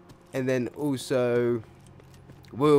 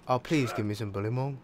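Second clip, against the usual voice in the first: pleading. Real, not acted. Begging after loud demand.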